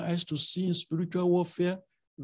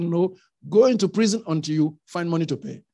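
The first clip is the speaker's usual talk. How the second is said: harsh refusal; 6 dB louder, faster than usual. Retold or imitated. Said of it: "He said".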